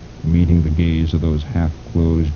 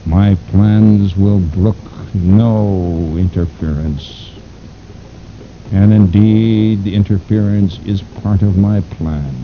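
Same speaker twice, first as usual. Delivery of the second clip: slow menacing villain; 2 semitones higher than usual. Acted. Fu Manchu speaks slowly.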